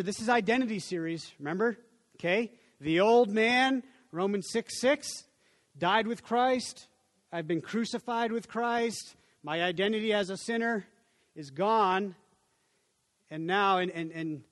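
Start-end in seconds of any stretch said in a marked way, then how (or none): 2.8-12.2 slow emphatic preaching. Acted. Preacher stressing key doctrine.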